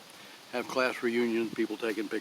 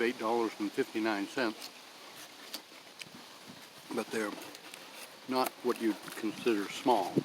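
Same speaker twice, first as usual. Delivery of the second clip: talking through a bite; chewing between words; mouth full. Real, not acted. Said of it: "pardon me while I talk with my mouth full".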